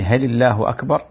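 "هل الله أكبر؟" asked with a rising question tune; spoken as a question, rising on أكبر. Shown as a demonstration. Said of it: "أصبح استفهامًا".

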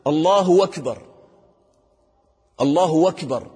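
"الله أكبر" run together as "اللهُ وَكبر"; "أكبر" begun with "wa", joined to "الله"; dropped hamza. Shown as a demonstration. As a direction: glide a "w" into "أكبر" instead of a glottal stop. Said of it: "أيضًا هذا خطأ".

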